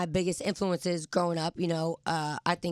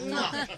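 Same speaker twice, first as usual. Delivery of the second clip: air kiss; 6 semitones higher, 3 dB quieter than usual. Real, not acted. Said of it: "we gave her a little mwah".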